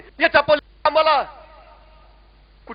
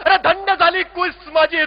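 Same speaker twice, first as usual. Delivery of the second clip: tearful; 4 semitones higher than usual. Acted. Mother hugging her son, overcome, crying out through tears. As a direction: let the tears break through the words.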